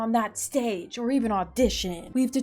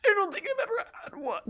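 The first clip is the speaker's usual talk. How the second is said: put-on girly voice; 10 semitones higher, faster than usual. Answering quiz in put-on voice.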